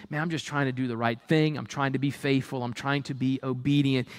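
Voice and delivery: low, quick tired sigh of a thought; a hint of a discouraged believer thinking; weary inner voice. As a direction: mutter it to yourself, low and worn down.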